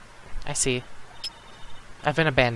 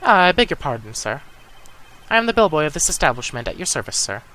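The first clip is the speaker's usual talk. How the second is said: butler robot; 2 semitones higher, 4 dB louder than usual. Pretend. Bellboy voiced in game.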